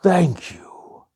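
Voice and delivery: bow and whisper it; whispered thanks. Acted. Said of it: "and said".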